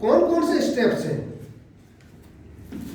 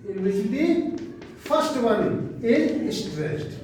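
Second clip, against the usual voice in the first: slow dictation; 4 dB quieter, much slower than usual. Shown as a demonstration. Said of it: "teacher dictates slowly".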